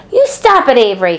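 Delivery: high, loud desperate shout; alarmed cry. A narrator's reading. Fern crying out to stop Avery, very high and loud. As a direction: yell to stop your brother. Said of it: "cried Fern".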